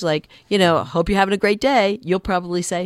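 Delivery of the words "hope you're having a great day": "great day" pitched up brightly at the end of the message; voice goes up. Shown as a demonstration. Voicemail greeting wishing the caller a great day, voice lifted. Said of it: "if their voice goes up at the end of the message".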